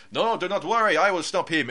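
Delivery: a hammed-up French inspector accent; awful French accent. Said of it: "in an awful French accent".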